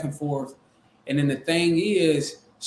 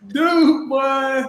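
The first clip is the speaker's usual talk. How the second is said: laughing; 7 semitones higher than usual. Real, not acted. Joking about childhood whoopings.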